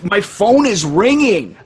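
high, spaced-out druggy rambling; dazed tripping voice. Retold or imitated. Odo voiced tripping on drugs.

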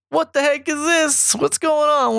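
very high outraged squawk; mock-shocked nobles protesting; indignant outburst. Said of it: "And they're like".

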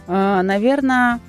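normal talking voice

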